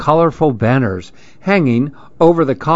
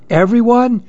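high-pitched, taken-aback question; gulping alarm; 10 semitones higher than usual. A narrator's reading. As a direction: ask it with a touch of dread. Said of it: "Evan gulped".

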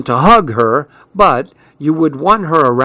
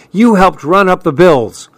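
higher-pitched accusation; accusing; 5 semitones higher, 3 dB louder than usual. A narrator's reading. Dad blames mom for the bills, accusing. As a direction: turn the blame back on the listener.

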